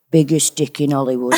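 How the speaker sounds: laughing northern grandma line; northern grandma accent. Retold or imitated. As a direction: tease it like a cheeky Chesterfield nan. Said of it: "if I ever have to go into my northern".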